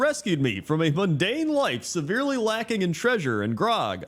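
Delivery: lightly voiced pirate storyteller, rising pitch; Cook Lastwind. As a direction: declaim it as a pirate's tale, lightly acted. Quoting pirate cook's backstory.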